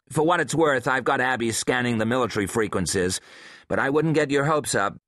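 lightly voiced woman, worried; tense woman reporting bad news; female scientist voice. Hensley voiced by narrator.

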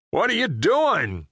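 alarmed high shout. Acted. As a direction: yell it in shock at the driver. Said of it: "Frank shouted".

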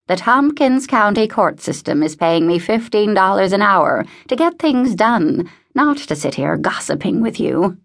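lightly voiced old lady, brisk in intent, emphatic; a touch of scolding self-importance; impatient old woman. Voices impatient Mrs Pembroke.

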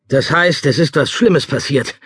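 alarmed. Acted. Cook alarmed by disaster march.

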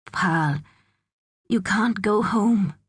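slowing, careful explanation; gentle. A narrator's reading. Jamal telling Pearl she can't go home, gentle. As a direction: break it to a child gently. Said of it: "said Jamal gently".

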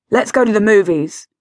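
mild holler to another room. Acted. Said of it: "she heard him holler".

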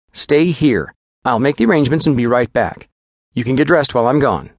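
quick, businesslike physician giving orders; lightly voiced clinical doctor; brisk doctor.

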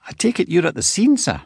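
steady dispatcher voice, calm and collected; calm young control room operator. A narrator's reading. Operator asks.

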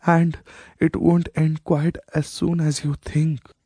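a lightly voiced old queen, triumphant; declared. A dying queen declares her revenge to her son, lightly voiced. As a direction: declare it as her final victory. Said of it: "she declared".

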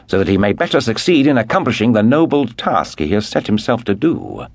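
put-on a young man glowing with hero worship, voice lifted; eager Sir Andrew. Young man praising his leader to mademoiselle, eager and lifted.

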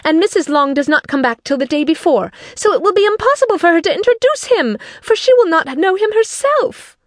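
very high, agitated complaint; agitated cry. A narrator's reading. Mother frets that the introduction is impossible, high and agitated. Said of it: "cried her mother".

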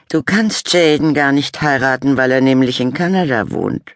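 a know-it-all little brother; Henrik remarking. A narrator's reading. Little brother correcting his sister, high boy voice. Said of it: "bemerkte Henrik".

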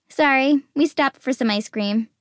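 muffled, face pressed into a chest; face in someone's chest. Acted. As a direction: speak muffled into a hug. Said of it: "she says into my chest".

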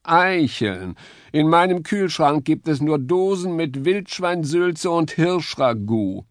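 lightly voiced scorn; disgusted sneer. A narrator's reading. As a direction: look down on acorns. Musketeer voice, disgusted.

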